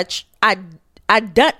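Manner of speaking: tripping over the words; stumbling, stuttering restart. Real, not acted. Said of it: "I'm stuttering".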